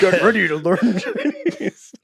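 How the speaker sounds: slowly savoring the line through laughter; drawn-out amused repeat; slow laughing repeat. Retold or imitated. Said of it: "repeat of the line".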